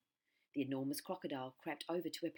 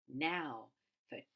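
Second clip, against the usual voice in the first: slow gloating; 3 dB louder, slower than usual. Acted. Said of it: "he said to himself".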